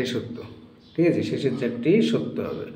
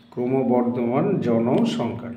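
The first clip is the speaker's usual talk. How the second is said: ক্রমবর্ধমান জনসংখ্যা said slowly, syllable by syllable; slow dictation; much slower than usual. Shown as a demonstration. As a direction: spell out ক্রমবর্ধমান জনসংখ্যা slowly for students to write. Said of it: "সেটি উত্তর হবে". (ধীরে ধীরে বলা ক্রমবর্ধমান জনসংখ্যা)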